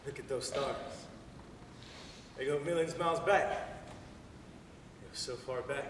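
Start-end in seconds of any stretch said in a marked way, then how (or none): 3.5-5.8 awed hush. Acted. Awed trailing off.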